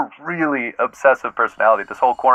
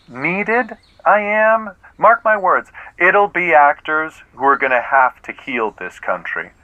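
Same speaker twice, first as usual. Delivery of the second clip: grandiose; 3 semitones higher, slower than usual. Acted. Actor's grand pronouncement.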